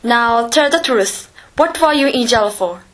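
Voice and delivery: stern. Acted. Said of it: "asked sternly".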